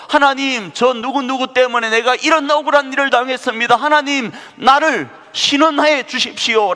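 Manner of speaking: pleading prayer. Retold or imitated. Wronged person pleading to God.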